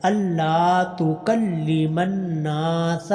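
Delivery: slow drawn-out tajweed chant; slow tarteel recitation; Quran recitation. Shown as a demonstration. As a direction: recite each vowel long and measured. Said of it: "نون کو لمبا کرنا".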